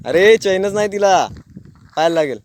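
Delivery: warning call. Real, not acted. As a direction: call it out so he hears. Warning about missing chain. (मोठ्याने सावध करणे)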